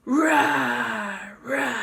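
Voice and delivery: put-on a gentle roar for a baby; lion roar. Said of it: "Lion says".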